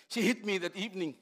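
ordinary delivery

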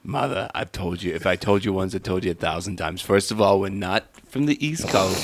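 a light put-on East Coast accent, exasperated. Son scolding his mother in a mild East Coast accent. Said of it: "why we're talking like this".

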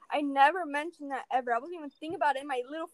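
fast, loud, exasperated burst; worked up rant. Real, not acted. Ranting to a friend about the ignored email, fast and loud. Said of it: "Someone's angry".

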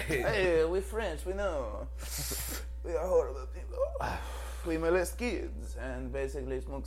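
mock French accent, slow in places; hammed-up French insult; lightly put-on French accent. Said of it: "In a French accent?".

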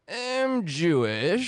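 very slow, drawn-out Jewish voice. Retold or imitated. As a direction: stretch it out in a caricature voice. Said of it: "in a really Jewish voice".

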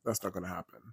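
soft, menacing honey voice; quiet menace. Retold or imitated. Nurse softly warning the author, sweet and menacing. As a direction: purr the threat sweetly. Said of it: "And she's like".

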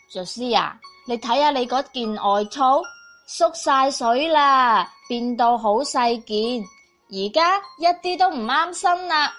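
mother voice. Acted. Mother scolds about shrunk coat.

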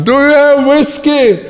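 high, drawn-out shout from the doorway; shouting across restaurant. Retold or imitated. Pastor shouting across the restaurant from the doorway, slow high shout. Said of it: "z progu ... krzyczałem".

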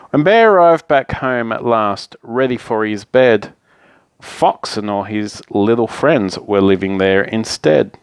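picture-book narration with lively phrasing; story narration. A narrator's reading. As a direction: read a bedtime story to children. Reads picture book aloud.

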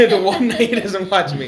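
laughing while echoing the line; amused echo, laughing. Real, not acted. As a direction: repeat it through real laughter.

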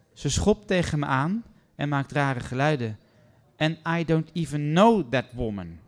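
building from agitated to loud and high, voice climbing; rising indignant rant. Acted. Guest complaining to receptionist about her roommate, rising indignant rant.

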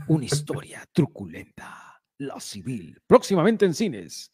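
dramatic promo read; movie trailer voice. Acted. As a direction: sell it like a film ad. Mock trailer continues.

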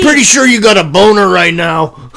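put-on New York accent. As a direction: keep teasing, New York style. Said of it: "I made him New York".

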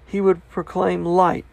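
animated Bible reading, pitch lifted at times; scripture reading. Acted. Preacher reads Paul's speech to King Agrippa, animated scripture reading. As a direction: read Paul's defence out with conviction.

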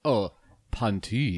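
drawn-out, breathy Oh, panties; exaggerated panties. Shown as a demonstration. Mocking the way not to say panties. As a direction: stretch Oh, panties slowly. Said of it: "an extra emphasis like panties".

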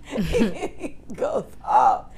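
laughing through the words, slow; cracking up while telling; breathy laughing. Real, not acted. Talking to co-host, laughing about Joe's outburst. Laughing after retelling rant.

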